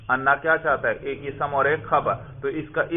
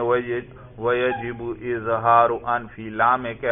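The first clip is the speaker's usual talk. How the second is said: text recitation. Shown as a demonstration. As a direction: recite the Arabic rule in a measured reading tone. Reads the Arabic text. (عربی متن کی قراءت)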